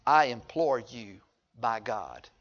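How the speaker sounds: slow, soft plea; pleading demon. Retold or imitated. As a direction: beg quietly and slowly.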